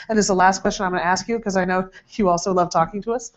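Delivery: dry teasing sarcasm, quick; sarcastic. Real, not acted. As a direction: needle him with mock politeness. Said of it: "that's me being sarcastic".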